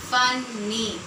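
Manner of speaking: "funny" in two slow beats, fun, ny; split into syllables. Shown as a demonstration. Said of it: "So two syllables are there".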